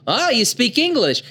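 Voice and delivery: high, hammed-up gasp of wonder; mock dub surprise. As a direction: play the silly dub line big. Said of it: "But in the dub".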